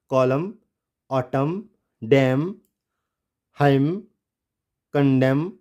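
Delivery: कॉलम, ऑटम, डैम, हाइम, कंडेम all ending on M; silent N. Shown as a demonstration. Teacher models the word list, silent N. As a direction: read कॉलम to कंडेम singly, final n unspoken. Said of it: "silent हो गया".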